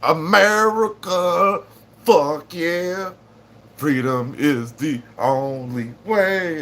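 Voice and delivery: mock patriotic cheer. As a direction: belt it like an action hero. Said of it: "I'd be like".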